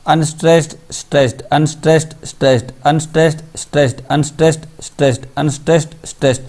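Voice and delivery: "अनस्ट्रेस्ड" lifted slightly, "स्ट्रेस्ड" dropping after it, in steady pairs; alternating stress pattern. Shown as a demonstration. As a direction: count off "अनस्ट्रेस्ड, स्ट्रेस्ड" as a repeating two-beat pattern, each word separate. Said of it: "यानी ये combination देखिए आप". ("अनस्ट्रेस्ड, स्ट्रेस्ड" को जोड़ियों में लय से, अलग-अलग बोलें)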